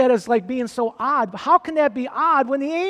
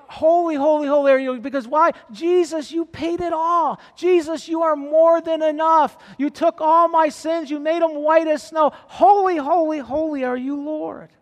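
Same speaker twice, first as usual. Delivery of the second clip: higher, fervent cry of praise; passionate worship cry; 4 semitones higher than usual. Shown as a demonstration. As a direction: pour it out like a worship leader. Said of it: "screaming it out".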